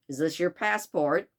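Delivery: roughly attempted Chicago accent; poor Chicago accent. Fix questions a passenger about a passport, poor Chicago accent. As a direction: try a Chicago accent, not very convincingly. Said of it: "my very poor attempt at a Chicago accent".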